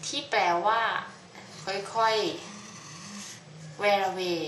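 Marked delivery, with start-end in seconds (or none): 1.6-4.4 drawn-out slowly. Shown as a demonstration. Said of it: "อย่างช้าๆ ค่อยๆ เป็นค่อยๆ ไป".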